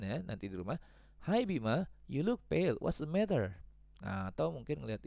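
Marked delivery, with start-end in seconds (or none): 1.3-3.6 concerned friend Dona. Acted. Dona asks Bima.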